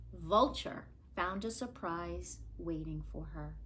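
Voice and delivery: suspense whisper. A narrator's reading. Storyteller builds suspense.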